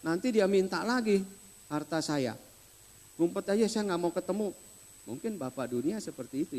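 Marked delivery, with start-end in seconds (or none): 0.0-4.5 higher, louder panicky mutter to himself; a stingy father ducking his son; half-comic alarmed dad; worldly father. Retold or imitated. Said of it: "mungkin akan berpikir".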